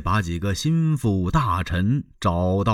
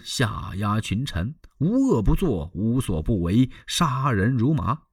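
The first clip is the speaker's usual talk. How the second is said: Lü Bu denouncing; 3 semitones higher than usual. Acted. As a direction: list his crimes, rising to a roar. Lü Bu denounces Dong Zhuo.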